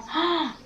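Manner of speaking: high, soft intake of breath; shocked gasp. Real, not acted. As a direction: gasp at an awful smell. Recalling the awful smell.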